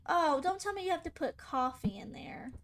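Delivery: whispered dismay. Real, not acted. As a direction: whisper it in disbelief. Dismayed at the recipe.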